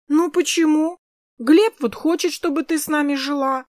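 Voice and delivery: put-on a small girl begging for her way; little girl pleading. Little Kris begging Polya to stay, high pleading child voice.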